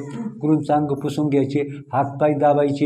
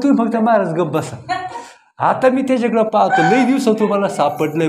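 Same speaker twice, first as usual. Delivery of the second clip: gleeful revenge; 3 semitones higher than usual. Retold or imitated. Disciple gleefully takes revenge.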